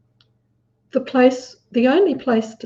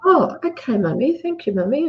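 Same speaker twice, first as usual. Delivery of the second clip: put-on grateful little boy; 4 semitones higher than usual. Boy thanking his mum.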